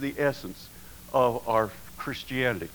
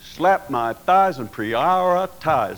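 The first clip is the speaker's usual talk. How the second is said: Southern saying; 2 semitones higher, 4 dB louder, slower than usual. Retold or imitated. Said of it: "We say".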